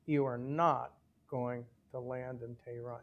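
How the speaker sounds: "not" stressed, then a brief break; imitating an instructor stressing "not"; emphatic instruction. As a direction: retell a firm rule, weight on "not". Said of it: "really emphasize".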